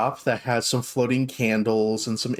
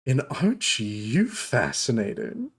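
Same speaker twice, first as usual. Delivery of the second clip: dark elf shopkeeper. Acted. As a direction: coo at unexpected guests. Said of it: "looks him up and down and goes".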